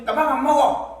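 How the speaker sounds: acted huffy outburst; sulky refusal. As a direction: play a cross child refusing dinner. Acted child refusing dinner.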